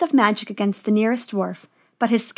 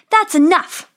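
higher, louder firm command; commanding Snow White; 8 semitones higher, 5 dB louder than usual. A narrator's reading. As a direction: stop the witch with authority. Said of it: "she said".

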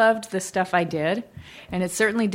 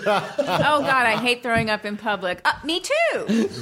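airhead voice. Acted. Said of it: "Sample dialogue?".

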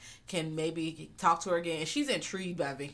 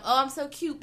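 high, louder cutesy voice; mock cute; 7 semitones higher, 4 dB louder than usual. Podcaster playing herself as the cute marshmallow man, high. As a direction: coo it like an adorable mascot. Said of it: "Because I'm".

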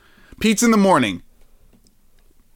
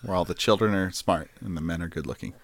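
Garrison Keillor impression; 6 semitones lower, 8 dB quieter, faster than usual. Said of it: "He s-, breathed into the mic a lot".

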